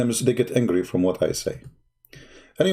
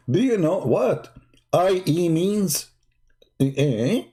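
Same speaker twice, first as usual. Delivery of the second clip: higher, teasing challenge; excited; 4 semitones higher, slower than usual. Real, not acted. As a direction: press the question with gleeful energy. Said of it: "I'm getting excited now".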